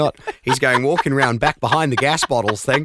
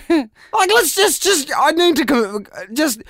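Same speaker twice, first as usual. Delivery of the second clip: laughing; 13 semitones higher than usual. Real, not acted. Host trying to recover from laughing.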